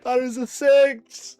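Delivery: loud high slow shout; excited. Real, not acted. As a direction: announce it with glee. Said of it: "performance check".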